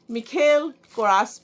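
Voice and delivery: मिखेल कोरास as mee-KHEL ko-RAAS; hard kh in मिखेल, long aa in कोरास; variant brand pronunciation. Shown as a demonstration. Vlogger listing how others say the brand, variant pronunciation. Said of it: "कई लोग इसको ... बोलते हैं".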